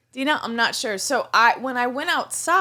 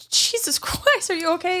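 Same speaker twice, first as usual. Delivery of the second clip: shocked concern; 7 semitones higher than usual. Retold or imitated. Asking the gas station guy if he's okay, mock alarm. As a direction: gasp it out in alarm.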